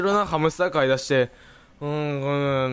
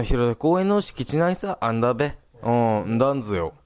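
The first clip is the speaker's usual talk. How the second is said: Tsugaru dialect; 2 semitones lower than usual. Real, not acted. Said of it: "それ何弁？".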